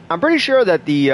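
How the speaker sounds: "pretty" swung high and sassy; zesty delivery. Real, not acted. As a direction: give "I'm pretty sure" a sassy lilt. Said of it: "that was a little bit of a zesty delivery".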